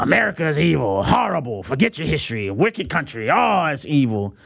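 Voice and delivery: mild sneering mimic of America's critics; lightly mocking critic voice. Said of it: "forces in our nation".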